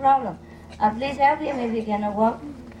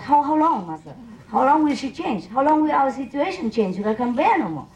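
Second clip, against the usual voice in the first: pleading disciple; 4 semitones higher than usual. Retold or imitated.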